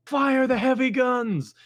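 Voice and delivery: high, loud, slow captain's command; shouted order. Retold or imitated. Mock captain ordering his gunners, shouted command. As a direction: bellow the order across the deck.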